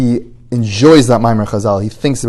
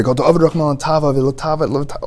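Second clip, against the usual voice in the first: repeating over and over; 3 semitones higher, faster than usual. Acted. Man shoving a saying into his head, repeating over and over. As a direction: drum it into your own head in a rush. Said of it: "telling himself over and over".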